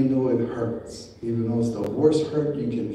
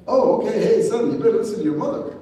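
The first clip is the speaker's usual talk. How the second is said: higher, fast, sheepish father giving in; a henpecked dad quickly backing down, pitched up; father caving in to the mother, higher and quick; meek father; 9 semitones higher, 3 dB louder, faster than usual. Retold or imitated.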